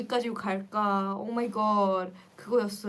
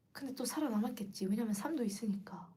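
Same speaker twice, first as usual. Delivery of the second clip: whisper; 9 dB quieter, much faster than usual. Real, not acted. Whispered aside.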